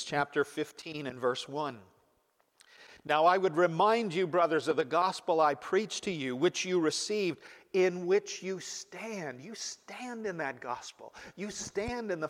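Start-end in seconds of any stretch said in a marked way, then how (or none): 3.0-9.4 scripture reading. Acted. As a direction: read the verse to the congregation with weight. Reads First Corinthians aloud.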